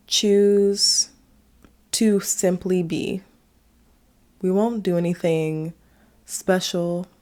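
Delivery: unhurried meditation guide, long pauses between phrases; guided meditation. Acted. Host leading listeners through a short practice, guided meditation. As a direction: guide them inward, leaving space after each phrase.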